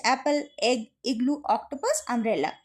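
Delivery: অ্যাপল, এগ, ইগলু each in one simple stroke; short vowels. Shown as a demonstration. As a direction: keep the vowels of অ্যাপল, এগ, অক্টোপাস short, undragged. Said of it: "একটাই উচ্চারণে বলছি". (অ্যাপল, এগ, ইগলু না টেনে সহজ উচ্চারণে)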